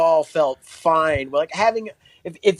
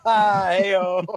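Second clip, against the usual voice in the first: usual speaking voice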